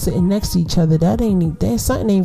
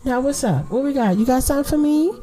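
mock sarcastic gush; 8 semitones higher than usual. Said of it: "I'm like".

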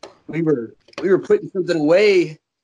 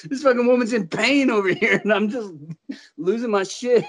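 laughing; 4 semitones higher than usual. Real, not acted. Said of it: "I couldn't stop laughing".

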